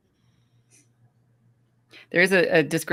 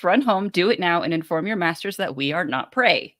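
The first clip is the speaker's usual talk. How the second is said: raised voice for a quoted warning; lightly acted stern order, louder at first; commanding; 4 semitones higher, 3 dB louder than usual. Character sends a kid home to warn the masters, commanding.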